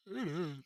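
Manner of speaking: wordless yawn in character; acted yawn; sleepy yawn. A narrator's reading. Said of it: "Yawns Beth".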